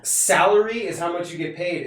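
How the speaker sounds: salary with an open A, 'SAL-uh-ree'; salary said 'SAL-ery', clearly set apart; contrasting pronunciation. Shown as a demonstration. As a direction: stress the first vowel of salary as in 'pal'. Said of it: "it's just how you say it".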